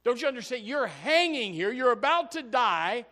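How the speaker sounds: from a hushed plea to a loud warning; the other thief rebuking his companion, hushed then shouting; pleading thief building up. Acted. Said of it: "And the other thief said".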